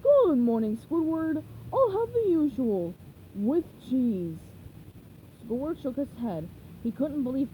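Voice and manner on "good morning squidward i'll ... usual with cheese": louder, cheerful dopey greeting; happy-go-lucky starfish; cheerful Patrick. Acted. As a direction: beam it out happily. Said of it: "cheerfully said".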